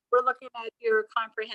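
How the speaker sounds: distant, muffled, far from the mic; like talking from across the room; inside a fishbowl. Real, not acted. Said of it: "you're really sounding like you're in a, like, a fishbowl far away".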